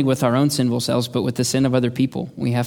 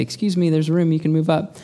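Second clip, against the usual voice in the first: polite request; 4 semitones higher than usual. Retold or imitated. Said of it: "kinda just politely say".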